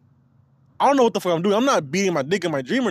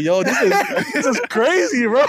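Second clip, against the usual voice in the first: rising to a higher, amazed exclamation; retold amazement; 4 semitones higher, 3 dB louder than usual. Recounting his reaction to friends, retold amazement. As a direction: act out being blown away.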